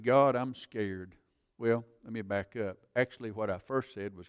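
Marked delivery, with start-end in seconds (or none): 0.0-1.1 retold fearful prayer. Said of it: "And I said".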